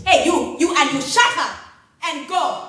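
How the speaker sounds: loud barking command; shouted order. Acted. Officer shouting at the girls to leave, loud. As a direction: drive them off with a yell.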